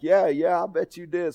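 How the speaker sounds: mock country accent. Preacher playing along with supposed prankster, mock country accent. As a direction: throw the country accent right back. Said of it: "I start throwing the accent back at him".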